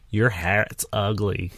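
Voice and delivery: slow, deliberate mock put-down; blunt insult. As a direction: draw it out like a self-styled honest critic. Voicing someone brutally honest leaning over.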